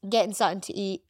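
"getting something to eat" with the voice slipping oddly; voice going weird. Real, not acted. Partner looking forward to going home, voice going weird. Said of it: "my voice did go a bit weird".

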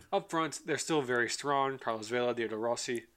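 talking between sips of a fizzy drink; words round a fizzy drink; while sipping a drink. Real, not acted. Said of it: "drinking Trulies, and they're a lot more bubblier".

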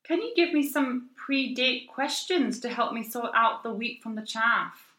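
slow, delicate Scottish lilt; Scottish accent. Acted. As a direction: read it out in a melodic Perthshire accent. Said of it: "Shall I read it in a Scottish accent?".

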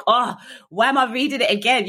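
amused self-exasperation. Retold or imitated. Annoyed at cell ceiling sign.

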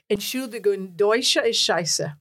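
German-accented line retold at an ordinary level; toned-down German accent; misheard German accent. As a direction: replay it in a German accent, slowing at the end. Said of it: "what they must have heard was".

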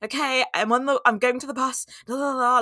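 panicked, out of breath. Retold or imitated. Walking fast to the bus, anxious on the phone to a friend, breathless. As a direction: gasp it out like you're rushing and scared. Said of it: "like, really panicking".

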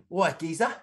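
brief mock London geezer; London accent. Shown as a demonstration. Co-host trying accents on request, rough London accent. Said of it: "Give us a London accent".

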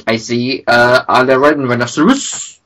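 put-on French-accented eccentric artist. Dali says something weird at the table, French accent. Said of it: "really weird in a French accent".

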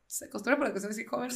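incredulous echo. Retold or imitated.

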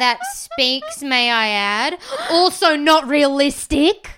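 loud, drawn-out mock outrage; hammed-up pedantic objection; mock indignation. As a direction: push each complaint up in mock seriousness. Mocking the reviewer's complaint.

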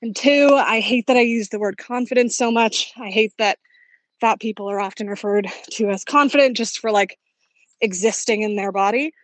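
road noise behind the voice; by busy road. Real, not acted. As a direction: speak outdoors by traffic. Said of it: "terribly sorry about the road noise".

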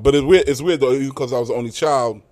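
talking around a mouthful of candy; candy in the mouth while speaking; mouth full. Real, not acted. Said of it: "I got some candy in my mouth".

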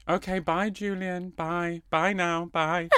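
quiet repeated goodbyes; lightly voiced Sheila signing off; Sheila's goodbye. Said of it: "Sheila goes".

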